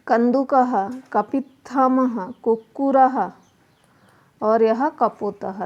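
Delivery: slow, careful Sanskrit words, visarga "ह" sounded at each end; correct pronunciation. Shown as a demonstration. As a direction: read "कंदुकः कपित्थमः कुक्कुरः" slowly for students to copy. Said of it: "हम शुद्ध उच्चारण आपको करके बता रहे हैं". (शुद्ध उच्चारण, धीरे-धीरे)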